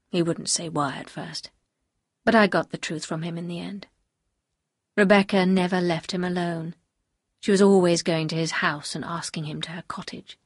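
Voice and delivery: a hint of a grave man confessing; Maxim confessing.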